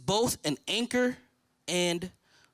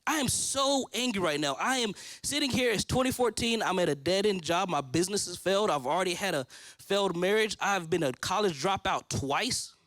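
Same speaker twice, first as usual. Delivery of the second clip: retold angry prayer. Man retelling his fight with God on the deck, indignant. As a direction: act out fussing at God, easing toward the end. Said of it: "I'm angry at God".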